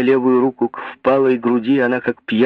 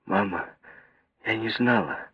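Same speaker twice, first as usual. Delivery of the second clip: sobbing; 4 semitones lower, 9 dB quieter than usual. A narrator's reading. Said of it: "всхлипнула она".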